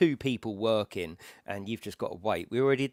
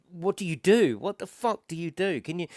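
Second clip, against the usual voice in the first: high, loud burst of retold panic; panicked, higher-pitched questioning; panicking; 8 semitones higher, 5 dB louder than usual. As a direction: act out a frantic plea for help. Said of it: "I'm literally panicking".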